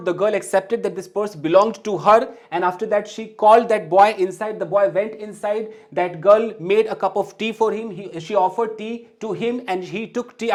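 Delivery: slow, careful reading of a short story for learners. Shown as a demonstration. English teacher reading a sample story to students, slow and careful. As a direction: read it out slowly so beginners can follow.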